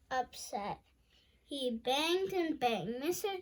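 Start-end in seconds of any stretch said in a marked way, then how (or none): 3.0-3.3 high, pleading mock howl. A narrator's reading. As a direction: howl at the shut door, lightly. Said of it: "he howls".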